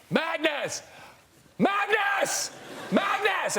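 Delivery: retold yelling. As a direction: re-enact yelling at your son during the game. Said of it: "I was screaming at my oldest son".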